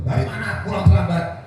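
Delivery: lightly acted wifely reproach; pouting wife. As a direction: imitate a pouting wife's demand. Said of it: "Disambut sama istri manyun".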